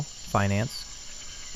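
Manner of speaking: soft breathy whisper; whispered aside. Acted. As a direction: drop to a whisper for the word. Whispered aside in shaman's speech.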